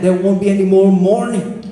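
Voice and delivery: usual speaking voice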